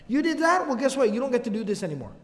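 You did that? rising sharply in disbelief; incredulous rebuke. Retold or imitated. Muslims scolding the hypocrite for abandoning the army, incredulous. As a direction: call him out, scornful and high.

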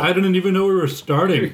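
talking through a mouthful; words round a bite of food; mouth full. Real, not acted. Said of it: "He's got his mouth full".

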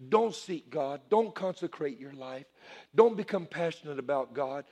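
lightly voiced sly devil; voice of the enemy. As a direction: softly lure them away from God. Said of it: "That's the way the enemy talks".

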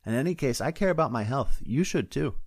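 a touch of prim advice; preachy deputy. Acted.

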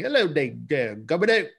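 lightly imitated mock Cockney greeting; Dick Van Dyke's Cockney.

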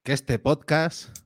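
slow, drawn-out proclamation; town crier. Pretend. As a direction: proclaim to all the listeners. Mock proclamation continues.

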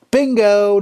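high, loud bingo; triumphant exclamation. Real, not acted. DJ finds the wedding hook, triumphant call. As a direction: shout it like you just won.

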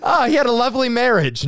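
put-on high, loud French accent; hammy Inspector Clouseau French; bad French accent. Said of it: "in a bad French accent".

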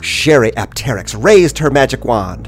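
dramatic storybook reading; story narration. A narrator's reading. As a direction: read it like a thrilling tale. Reads the story aloud.

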